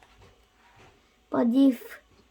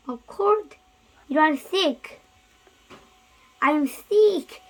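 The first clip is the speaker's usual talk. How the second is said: happy surprise; 3 semitones higher than usual. Acted. Gerald thrilled to learn he has a cold.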